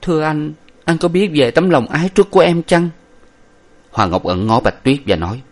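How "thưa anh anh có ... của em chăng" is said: lightly voiced, higher tearful plea; a girl asking her beloved through tears; a hint of a weeping maiden; tearful young woman. A narrator's reading. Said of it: "hai hàng lụy ngọc tuôn dầm và nói".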